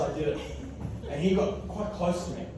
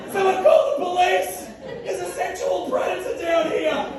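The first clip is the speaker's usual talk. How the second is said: high, frantic cry for help; mock panic; 13 semitones higher than usual. Passerby calling for police, high mock panic. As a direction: play the alarmed bystander. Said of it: "Everyone's like".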